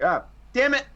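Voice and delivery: high, loud cry of frustration; exasperated yelp at the screen; frustrated groan. Pretend. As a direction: blurt it out like your team just lost. Viewer frustrated as villain escapes.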